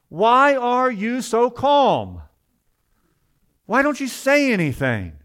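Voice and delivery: high, loud, drawn-out mock yell; retold screaming. Policeman confronting his calm captive, retold as a yell. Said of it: "he was screaming at me".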